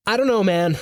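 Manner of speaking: high-pitched, helpless protest; panicking. A narrator's reading. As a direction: explain yourself in a panic. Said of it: "I'm panicking would be an understatement".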